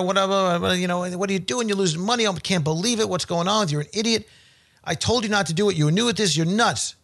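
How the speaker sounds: mock screaming at wife. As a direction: scold his wife in a hammed-up rant. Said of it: "He starts screaming at her".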